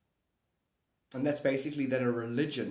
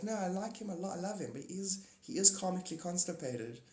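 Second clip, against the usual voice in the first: imitating friend Candy; 5 semitones higher, 5 dB quieter than usual. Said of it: "she's like".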